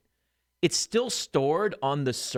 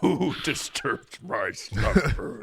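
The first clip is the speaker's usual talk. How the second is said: dusty mummy rasp; much slower than usual. Pretend. Bezos woken from cryo sleep.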